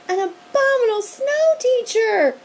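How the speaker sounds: loud, high terrified cry; children screaming at the monster; screamed. A narrator's reading. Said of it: "screamed the children".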